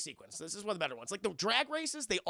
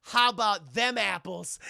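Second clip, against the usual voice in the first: smug cheesy line; 9 dB louder, slower than usual. Retold or imitated. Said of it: "a horrible line".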